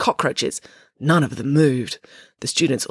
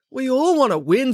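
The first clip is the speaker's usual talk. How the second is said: higher, withering put-down; 10 semitones higher, 3 dB louder than usual. A narrator's reading. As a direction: cut her down coldly. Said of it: "said Animesh witheringly".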